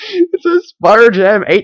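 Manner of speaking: giggling through words. Reading the words printed on a t-shirt: laughing while talking. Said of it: "Why am I laughing?".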